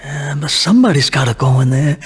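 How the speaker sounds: ordinary talk, nothing marked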